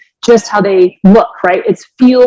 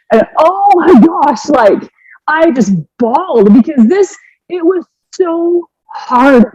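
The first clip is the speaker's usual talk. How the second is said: tearful; 7 semitones higher, slower than usual. Real, not acted. Recalling bawling at daughter's words.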